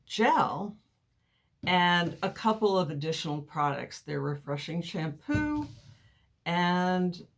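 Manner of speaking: lisping, like cotton in the mouth; slight lisp. Real, not acted. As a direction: talk with a light lisp from a mouth appliance. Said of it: "I'm kinda lisping here".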